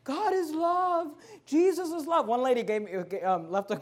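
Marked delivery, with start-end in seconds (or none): 0.0-2.3 high, slow, mock-sweet sing-song; mocking liberal Christians. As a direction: drag it out sweetly to mock them. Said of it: "liberal Christians are like".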